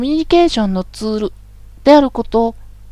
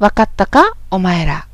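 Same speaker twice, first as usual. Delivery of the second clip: rough bossy talk; 3 semitones lower than usual. Shown as a demonstration. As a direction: order the crowd around roughly. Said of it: "こういう話し方をしても". (乱暴に命令する口調)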